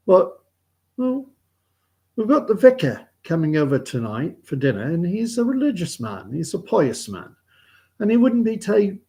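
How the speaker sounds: put-on Northern English farming-folk accent; British accent. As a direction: tell the joke in a British accent. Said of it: "developing my British accent".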